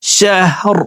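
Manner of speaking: শাহর ending on a silent, stopped r; শাহর with a sukun on the last letter; stopped final r. Shown as a demonstration. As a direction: cut শাহর off cleanly on the r. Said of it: "র কে ওয়াকফের ক্ষেত্রে সাকিন করে ফেলবো".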